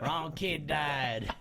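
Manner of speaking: very slow, drawn-out catchphrase; movie father. Retold or imitated. Imitating the father blaming his son, slowly drawn out. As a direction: stretch each word as a mock accusation. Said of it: "He said".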